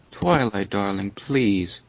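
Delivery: slow, drawn-out darling; a hint of a posh pony pleading; lightly voiced Rarity. Reading Rarity's line.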